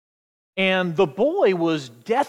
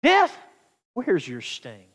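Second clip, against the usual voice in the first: confident taunt; 2 semitones lower, slower than usual. Shown as a demonstration. Confident believer challenges death, taunting. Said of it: "it will almost kinda come across like this".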